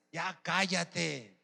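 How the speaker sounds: slow, drawn-out rebuke; understated, fed-up hushing; scolding. Acted. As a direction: tell him off, stretching the words. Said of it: "le reprendían para que se callase".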